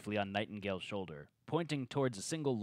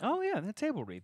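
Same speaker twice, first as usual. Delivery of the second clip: mock dramatic; 11 semitones higher than usual.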